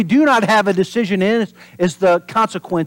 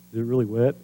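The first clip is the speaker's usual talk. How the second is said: curious toucher; 7 semitones lower, 6 dB quieter, faster than usual. Retold or imitated. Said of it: "you know you touch it".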